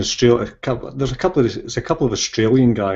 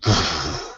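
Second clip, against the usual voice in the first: imitated whoosh; 5 semitones lower than usual. Describing the film's glow off her head, imitated whoosh. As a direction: blow out a short, low whoosh. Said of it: "you see that kind of".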